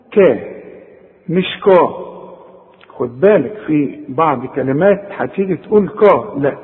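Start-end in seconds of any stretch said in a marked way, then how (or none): 1.3-1.9 كا with a light thin kaf. Shown as a demonstration. Teacher showing how kaf sounds in the Quran. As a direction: say كا thin and unemphatic. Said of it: "كل كاف في القرآن".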